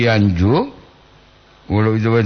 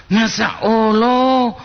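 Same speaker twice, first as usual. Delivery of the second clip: surprised exclamation; 9 semitones higher, much slower than usual. Real, not acted. Exclaims at long greeting.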